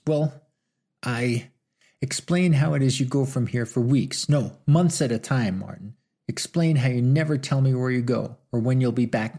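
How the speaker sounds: scolding her lover, rising anger; angry. Acted. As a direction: stab each point at him. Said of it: "Now angry".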